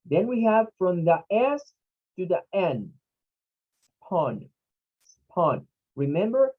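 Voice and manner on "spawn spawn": SPAWN with a vowel between A and O; open O in SPAWN. Shown as a demonstration. Teacher showing students the second syllable, open O in SPAWN. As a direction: model SPAWN alone, O mixed toward A. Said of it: "like a mixing between an A and an O".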